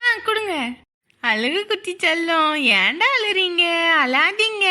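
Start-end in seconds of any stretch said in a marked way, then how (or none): 1.2-4.7 put-on baby-talk cooing. Cooing to a baby just handed over.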